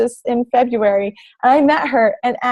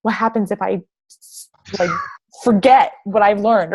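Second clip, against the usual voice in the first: mock panic; 4 semitones lower than usual. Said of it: "There's no, like".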